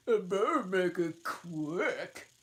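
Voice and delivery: high, loud put-on voice, slow; impatient Hatter. Hatter hurrying the Dormouse, high and loud. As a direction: snap at him to hurry.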